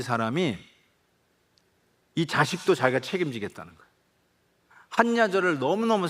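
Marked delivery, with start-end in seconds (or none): none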